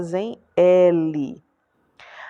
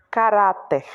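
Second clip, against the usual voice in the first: Caráter with a strong middle "rá"; stress on tonic syllable; 3 dB louder than usual. Shown as a demonstration. Teacher showing where the accent goes, stress on "rá" in Caráter. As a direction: lean on the "rá" of Caráter. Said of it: "ela leva um acento na sílaba tônica".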